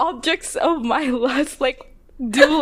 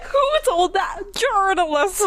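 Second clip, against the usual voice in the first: higher, laughing mock Southern accent; hammed-up Southern accent, pitched up; 7 semitones higher than usual. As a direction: put on a playful Southern accent through a laugh. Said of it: "He should have been like".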